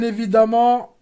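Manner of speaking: very slow, stretched announcement; drawn-out. Pretend. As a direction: stretch every word like a game show host. Drawn-out quiz answer announcement.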